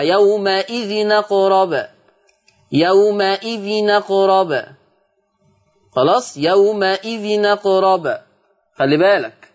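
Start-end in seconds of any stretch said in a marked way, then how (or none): 0.0-8.2 يومئذ أقرب slow with the tanween n carrying fath, yawma'idhinaqrab; slow recitation, open nun before أقرب; transferred hamza vowel. Shown as a demonstration. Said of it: "التنوين يبقى نون مفتوحة".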